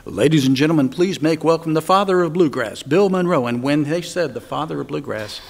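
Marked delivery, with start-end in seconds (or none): 0.0-3.5 loud, booming stage announcer. Retold or imitated. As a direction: introduce the star to the crowd. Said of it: "here's my announcer voice".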